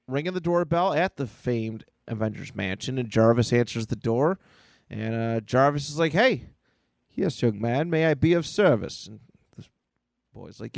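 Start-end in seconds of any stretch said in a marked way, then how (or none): 6.1-9.1 lightly voiced courteous butler; lilting, courteous butler greeting; polite butler. Butler greets the boy at the door, lightly voiced politeness.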